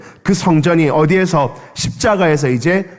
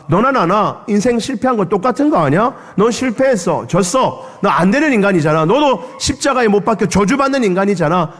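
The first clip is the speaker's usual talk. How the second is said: higher, contemptuous sneer; robber's scorn; 5 semitones higher than usual. Retold or imitated. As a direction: belittle him as a loser. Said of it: "두 강도들도 예수를 조롱했다".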